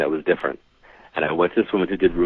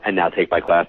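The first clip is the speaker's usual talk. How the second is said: mock sales pitch. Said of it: "I was waiting for the".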